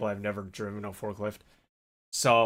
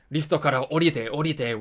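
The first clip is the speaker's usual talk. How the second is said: mock shouted order, higher and louder; commanding; 4 semitones higher, 5 dB louder than usual. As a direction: tell him firmly to get off. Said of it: "And then he was like".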